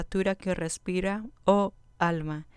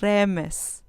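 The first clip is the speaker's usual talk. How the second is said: "Remes" said RE-mes, stress on the first syllable, a bit louder; 4 dB louder than usual. Shown as a demonstration. Teacher repeats "Remes" for students, stress on RE. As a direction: hit the RE of "Remes", light on "mes". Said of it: "con acento en la penúltima sílaba".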